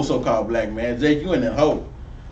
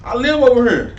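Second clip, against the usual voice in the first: retold jogger; 6 semitones higher than usual. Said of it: "He told the lady".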